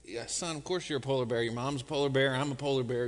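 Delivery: lightly voiced calm father bear; patient dad. Dad answers cub in joke.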